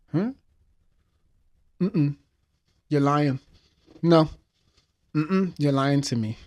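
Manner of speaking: put-on boy refusing to believe his friend died; denial. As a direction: refuse the news, voice rising.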